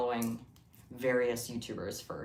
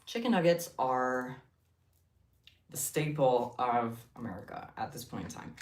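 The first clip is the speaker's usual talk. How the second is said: impactful speech. Shown as a demonstration. Giving viewers an impactful speech about chicken nuggets, solemn. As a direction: announce it like a grand orator. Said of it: "I'm giving an impactful speech".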